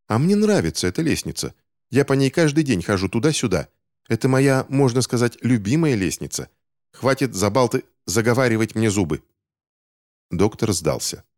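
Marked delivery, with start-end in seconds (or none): 0.1-9.2 put-on higher, stubborn child's voice; boy Finch, defiant. Boy Finch refusing to budge on the stairs, defiant and higher. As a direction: stand your ground like a cheeky boy.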